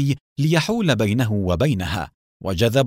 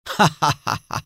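higher, open mocking laugh; loud laugh; 5 semitones higher than usual. The rider mocking Nour after the shot, loud laugh. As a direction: laugh down at the young man. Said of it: "أطلق ضحكة عالية".

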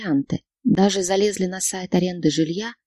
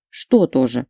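snapped; 6 semitones lower, slower than usual. A narrator's reading. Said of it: "рявкнула она".

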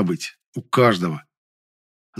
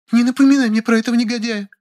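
high female character voice, whiny; Lilya, petulant; 13 semitones higher, 3 dB louder than usual. A narrator's reading. Lilya pleading with the narrator, high and petulant. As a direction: play the pouting woman, pitched high.

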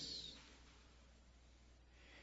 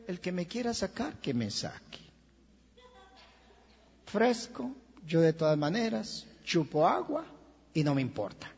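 unbothered drowning man. Retold or imitated. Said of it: "que diga".

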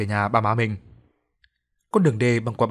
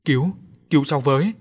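put-on high, louder child's cry for help; 4 semitones higher, 4 dB louder than usual. A narrator's reading. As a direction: call out like a drowning child. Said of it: "tiếng của một đứa trẻ kêu lên". (đứa trẻ kêu cứu, giọng cao)

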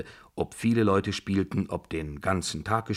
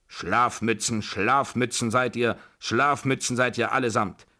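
higher, emphatic name-calling; acted scolding; 5 semitones higher, 4 dB louder than usual. Babuschka berating the whole family, indignant scolding. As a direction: scold them all as useless.

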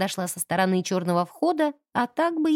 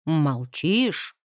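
stern question; 6 semitones lower than usual. Acted. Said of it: "сурово спросил завхоз".

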